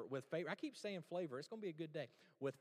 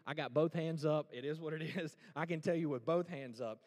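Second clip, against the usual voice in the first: loud confession; 8 dB louder than usual. Acted. Preacher confesses with raised hands.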